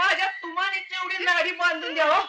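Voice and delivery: high, pleading simpleton servant; put-on servant voice. Servant act pleading with mistress. (भोळ्या नोकराचा उंच, विनवणीचा आवाज)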